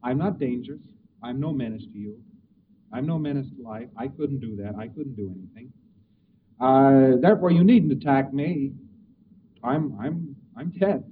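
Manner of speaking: lifeless, dropping away to near nothing; a deadened man murmuring he's harmless; apathetic dead man. Retold or imitated. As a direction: sound like nothing can touch you. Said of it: "His conversation will be along the line".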